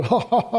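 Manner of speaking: imitating a mocking laugh; a light, fake ha-ha-ha. Preacher imitating wedding guests' mocking laugh. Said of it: "like this".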